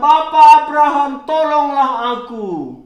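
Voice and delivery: fast, loud call for help; crying out for help. Acted. Rich man in hell calls to Abraham, a loud plea. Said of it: "dia berseru kepada".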